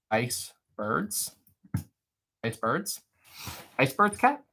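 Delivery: two split words with a questioning rise; rising, doubtful query; puzzled teasing. Real, not acted. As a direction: repeat it as a baffled little question. Teasing repeat of misheard word.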